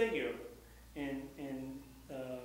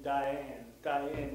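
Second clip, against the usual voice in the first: Diane with the weight on ane; stress like Diane. Shown as a demonstration. Teacher showing students the accent of Diane. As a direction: say Diane, leaning on the second beat. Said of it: "the way you say Diane".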